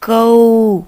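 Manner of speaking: loud, drawn-out कौ for the class; model syllable कौ. Shown as a demonstration. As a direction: say कौ clearly so the children repeat. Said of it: "क्या उच्चारण हुआ इसका?". (ज़ोर से साफ़ "कौ" बोलकर दिखाना)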